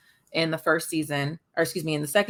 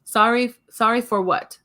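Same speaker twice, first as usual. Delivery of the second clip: put-on puzzled toddler; 7 semitones higher, 5 dB louder than usual. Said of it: "he was like".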